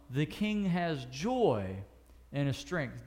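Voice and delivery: slow, deliberate Bible reading; solemn slow reading of the psalm; scripture reading. Acted. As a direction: read the verse slowly and reverently.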